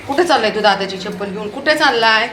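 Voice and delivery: scolding call. Real, not acted. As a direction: call sharply after a runaway, insisting on an answer. Scolding Veer running off with slipper.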